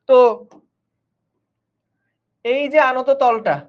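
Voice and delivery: ordinary talk, nothing marked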